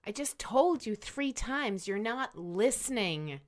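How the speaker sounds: fed-up reproach; exasperated. Acted. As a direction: scold someone who won't listen. Exasperated at not being listened to.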